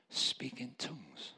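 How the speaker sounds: a gentle, drawn-out quiet prompt; little inner voice. Retold or imitated. Little voice to a sobbing man, soft and slow. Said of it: "a little voice came to me and said".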